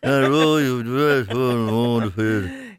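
mock Dublin babble with no real words; slurred-together Dublin gobbledygook; Dublin accent gibberish. Shown as a demonstration. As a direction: improvise nonsense in a Dublin accent. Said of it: "What would the Dublin accent be".

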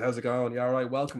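lightly imitated English greeting; director's easy English-accented welcome. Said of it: "in his English accent".

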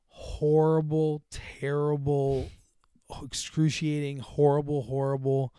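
slow, deliberate list of horrors; deadpan, weary dad's testimony, acted; drawn-out misery. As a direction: stretch each word out with weight. Acted dad listing parenting's miseries.

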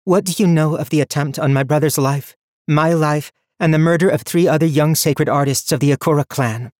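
loud, grave and barely restrained; grave hidden anger. A narrator's reading. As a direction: hold the anger in, but let it push. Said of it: "speak with such gravity and hidden anger".

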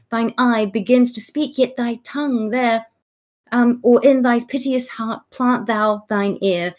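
recited verse, lightly pleading; heartfelt plea. Acted. Duchess of York begging for pardon, mildly heartfelt. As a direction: read it as an earnest appeal, slightly lifted. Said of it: "heartfelt, um, plea".

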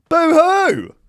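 sneering fake sob; mock boo-hoo. Taunting the Queen again with a high mock boo-hoo.

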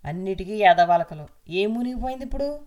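husband grumbling irritably as he walks out; irritated grumbling. Acted. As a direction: snap out the complaints as if fed up. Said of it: "అని విసుక్కుంటూ".

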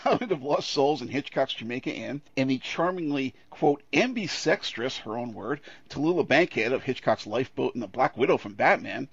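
measured presenter's read with lifted emphasis; scripted film-podcast introduction; prepared intro read. Real, not acted. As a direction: introduce the cast with playful relish.

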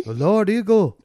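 put-on caricatured Minnesotan Native American accent; northern Minnesotan Native American accent. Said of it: "northern Minnesotan Native American accent".

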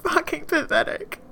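crying through the words; breaking voice. Acted.

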